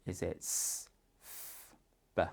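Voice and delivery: hushed options; whispered choices. Shown as a demonstration. Parent offering a child letter choices in a whisper. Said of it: "support them with it".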